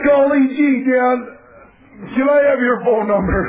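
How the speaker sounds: put-on eager, high, gee-whiz kid voice; wholesome 1950s kid. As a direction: play a squeaky-clean eager kid. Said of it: "he's like".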